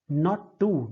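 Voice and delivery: unstressed "not", stressed "too". Shown as a demonstration. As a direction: lean on "too" after "not". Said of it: "not unstressed".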